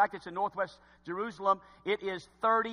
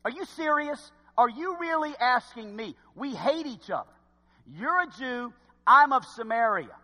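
higher-pitched sarcastic disbelief; 4 semitones higher than usual. Acted. Samaritan woman to a Jew asking her for water, sarcastic. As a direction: act out her scornful incredulity, pitched up. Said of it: "so she gets kinda sarcastic".

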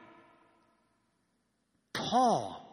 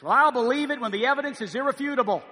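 mocking skeptic quote; 4 semitones higher, 4 dB louder than usual. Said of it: "This attitude that says".

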